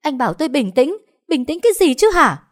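very high, loud furious shriek; screaming. A narrator's reading. Wife screams back at husband urging calm, very high. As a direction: explode in disbelief. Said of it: "chị Hạnh gào lên".

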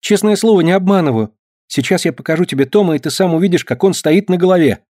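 put-on a boy swearing he tells the truth; eager boy. A narrator's reading. Boy's eager high voice. (мальчишка горячо уверяет)

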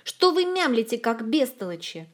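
high, loud angry scolding; angry yell. A narrator's reading. Olga scolds the mumbling friends angrily.

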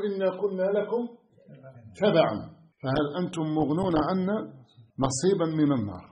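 loud, rising sermon warning; fervent pulpit voice; fiery preaching. Acted. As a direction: thunder at the congregation as a preacher. Quranic verse of the followers.

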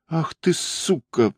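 high, slow, breathed-out shock and anger; изумлённый выдох. A narrator's reading. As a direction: gasp it out, stunned and furious. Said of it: "выдохнул парень с изумлением и гневом". (выдохнуть медленно и высоко, с изумлением и гневом)

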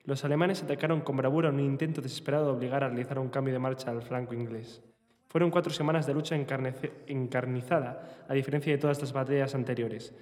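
novel narration, read steadily; voz de lectura. Acted. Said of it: "Una voz cavernosa de lectura". (lectura de novela en voz alta)

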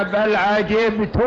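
عجبت read 'ajibtu, ending in -u; slow reading, عجبت closing on "tu"; damma on the ta. Shown as a demonstration. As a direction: say عجبت as "ajibtu". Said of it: "على قراءة ضم التاء".

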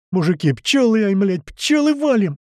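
high, urgent shout; yelling alarm. A narrator's reading. Tomas runs from bees warning the men, high yell. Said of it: "бегает Томас и орёт".

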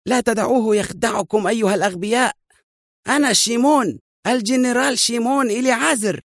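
high, desperate insistence; enraged cry, pitched very high; frantic anger. A narrator's reading. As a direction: plead furiously to be believed. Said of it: "وقد بلغت عصبيته مبلغها".

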